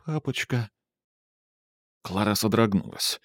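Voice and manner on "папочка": soft small voice calling papa; child calling from the van; thin child's voice. A narrator's reading. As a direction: call softly like a little child. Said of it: "тоненький голосок".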